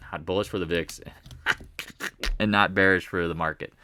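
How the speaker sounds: breaking into a laugh at your own slip; low talk interrupted by a chuckle; laughing at himself. Real, not acted. Trader tangled in bullish and bearish, laughing at himself. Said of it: "Sorry, I'm laughing at myself".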